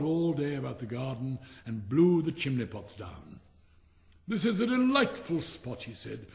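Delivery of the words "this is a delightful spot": north wind. Acted.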